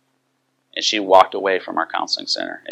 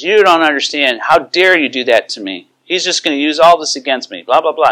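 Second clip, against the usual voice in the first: higher-pitched mock tirade; upset; 6 semitones higher, 3 dB louder than usual. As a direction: imitate her worked-up accusations, pitched up. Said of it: "she got very upset with me".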